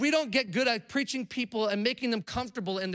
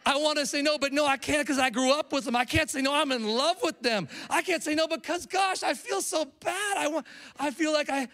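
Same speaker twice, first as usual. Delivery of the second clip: whiny, higher pleading voice; mock pleading excuse; 5 semitones higher than usual. People-pleaser voicing excuses, higher and whiny. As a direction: play the guilty people-pleaser begging off.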